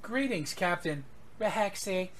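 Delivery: computer miming her name; ship computer voice. Acted. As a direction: echo the captain's name like a machine. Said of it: "the Rehexi is in her voice".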